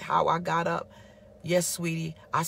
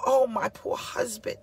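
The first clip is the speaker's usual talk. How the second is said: 1 tender pity; 5 semitones higher than usual. Retold or imitated. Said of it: "came from a place of".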